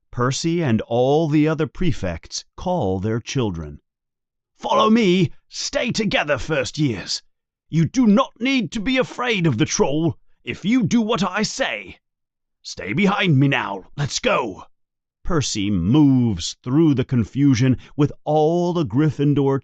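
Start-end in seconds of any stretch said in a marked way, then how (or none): 4.6-14.7 herd the first years importantly; bossy prefect. Acted. Percy leading first years.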